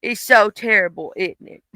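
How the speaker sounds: cooing sympathy to her dog; soothing pet talk. Real, not acted. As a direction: comfort the puppy gently.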